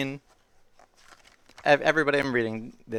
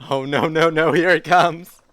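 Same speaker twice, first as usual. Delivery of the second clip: loud, slowing panic build-up; mock dread; 4 semitones higher, 11 dB louder, slower than usual. Reader sees the silly sounds coming, mock dread. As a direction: brace for what is coming.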